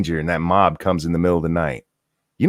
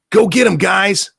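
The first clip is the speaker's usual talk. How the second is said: hammed-up high, slow egging-on; mock cheer them on, higher, louder and slow; mock rallying call; 9 semitones higher, 4 dB louder than usual. Mocking conservatives egging supporters on, hammed-up high cheer.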